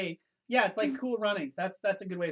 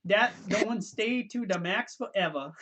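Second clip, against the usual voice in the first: slow, put-on island Pidgin accent; Hawaiian Pidgin accent; slower than usual. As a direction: stretch it out in a Jamaican-sounding Pidgin accent. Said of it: "It's Jamaican".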